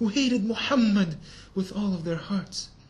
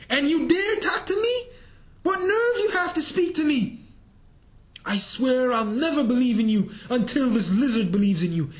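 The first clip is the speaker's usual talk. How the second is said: high, loud, indignant outburst; raised voice; 6 semitones higher, 6 dB louder than usual. Acted. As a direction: raise your voice in defiant challenge. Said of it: "the Bedouin raised his voice".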